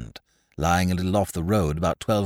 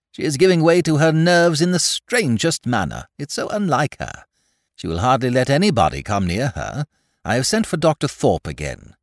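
haughty aristocratic lady, raised pitch; a grand duchess fretting loftily; imperious plummy grande dame; 5 semitones higher, 3 dB louder than usual. Acted. Duchess speaks in story.

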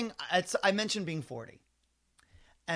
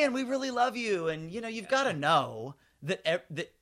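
sing-song pitch; 3 semitones higher than usual. Retold or imitated. Writer to Kate Gosselin about mocking her, light sing-song. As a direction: sing it sweetly so it sounds kind. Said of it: "if I sing-song it".

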